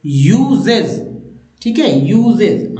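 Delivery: "यूजेज" धीमे, ज पर ज़ोर; slow demo. Shown as a demonstration. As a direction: draw out "यूजेज" with z. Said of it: "यहाँ भी ज बोल देते हैं". (धीमा उच्चारण "यूजेज")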